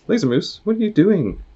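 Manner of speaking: character shouting at Laser Moose, alarmed; alarmed call. Acted. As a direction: yelp it in shock. Character startled by moose's move.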